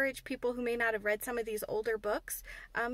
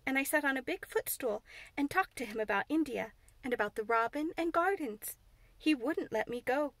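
Mary; 4 semitones higher than usual. Acted. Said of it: "said Mary".

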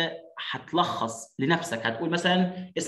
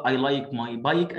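slow model reading; 2 semitones lower, much slower than usual. Shown as a demonstration. Reading child's line slowly.

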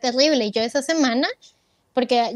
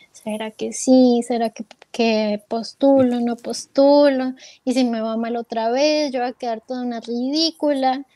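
insecure self-doubt. Retold or imitated. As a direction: replay your own dithering, drawing out each option. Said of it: "Todas las inseguridades posibles". (dudando con inseguridad, lentamente)

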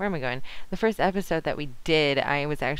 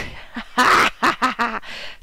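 loud, high burst of laughter; 5 semitones higher, 7 dB louder than usual. Real, not acted. Player spots the shirtless rider, loud laughing fit. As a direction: crack up helplessly. Cracks up at who is riding by.

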